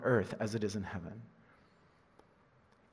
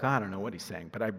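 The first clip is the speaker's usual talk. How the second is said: indifferent listener; 4 semitones lower, faster than usual. Acted. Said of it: "those who don't wanna hear are like".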